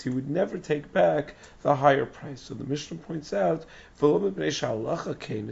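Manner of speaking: hoarse, strained lost voice; straining through a lost, hoarse voice. Real, not acted. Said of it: "I lost my voice".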